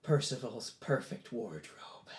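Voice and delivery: slow, soft naming of a spell; hushed incantation. Acted. Boy raising his hands to cast, slow hushed incantation. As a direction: pronounce it slowly and softly.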